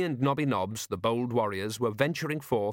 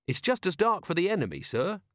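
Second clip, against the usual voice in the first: eager, respectful subordinate, pitched higher; keen Carrot; 8 semitones higher than usual. Acted. Carrot telling Vimes about the book, eager and respectful. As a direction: report keenly to a superior.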